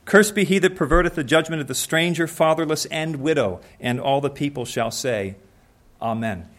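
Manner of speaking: measured reading of a Bible verse; scripture reading. Acted. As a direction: read the verse out to the congregation. Reads scripture verse aloud.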